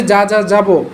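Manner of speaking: a deliberate stutter on যা, যা, যাবো; choppy, broken start on যা before যাবো; stutter demo. Shown as a demonstration. Teacher shows students how a stutter sounds. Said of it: "এইভাবে যদি বলে slip কেটে কেটে".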